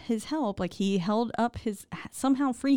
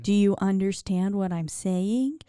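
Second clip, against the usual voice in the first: drawn-out, patronizing repeat; condescending; slower than usual. Retold or imitated. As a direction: stretch each word as if he can't follow. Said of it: "She's being very condescending".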